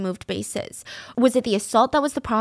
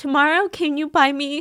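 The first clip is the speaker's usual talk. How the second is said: high-pitched voice overcome with emotion; 4 semitones higher than usual. Reading out a couple's last text messages aloud: emotional. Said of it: "I don't know why I'm so emotional".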